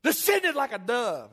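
drawn-out pulpit proclamation; slow preached yell. Retold or imitated. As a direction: stretch it out grandly. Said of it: "and he yells it out".

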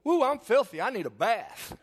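high, loud kid impression; hammed-up boyish exclamation; gleeful little boy. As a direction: announce it like a delighted muddy child. Acts out muddy boy announcing himself.

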